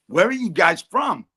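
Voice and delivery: a hint of American twang in the question; Donald Trump. Trump asking visitors their home, light American imitation. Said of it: "Donald Trump turned around and he says".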